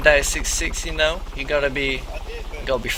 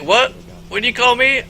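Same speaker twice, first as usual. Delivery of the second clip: loud, higher outraged snap; offended stranger; 9 semitones higher, 5 dB louder than usual. Retold or imitated. Stranger bristling at the pimp, loud and offended. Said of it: "He's like".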